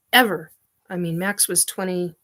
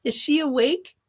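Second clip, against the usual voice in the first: higher teasing question; 5 semitones higher than usual. Real, not acted. Teasing Derek about wife.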